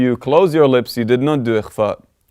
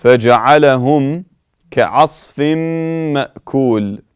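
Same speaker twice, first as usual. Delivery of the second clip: louder melodic tajweed chant; Quran recitation; 4 semitones higher, 4 dB louder than usual. Acted. Teacher reciting the final verse.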